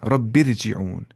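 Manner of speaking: "रब्बिरजिऊन" with a fine R after "bi"; Tajweed light ra in "रब्बिरजिऊन"; light thin R. Shown as a demonstration. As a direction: recite "रब्बिरजिऊन" as rabbir-ji'oon, R light. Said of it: "हल्की आवाज़ से पढ़ेंगे".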